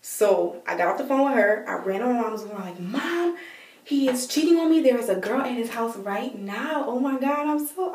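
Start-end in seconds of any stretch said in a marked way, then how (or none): 2.8-7.9 high-pitched mock crying to Mom; acted tearful outburst. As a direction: wail it out as a retold upset. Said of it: "I was crying".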